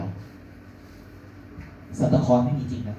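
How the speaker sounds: slow, soft whispered news; mother's blunt whisper. Retold or imitated. Mother taps son's shoulder on Christmas, slow whisper. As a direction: breathe it out slowly, flatly. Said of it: "แม่ผมเดินมาตบไหล่".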